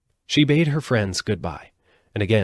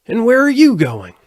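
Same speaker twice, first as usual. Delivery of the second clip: scarecrow voice; 11 dB louder than usual. Acted. Scarecrow asks.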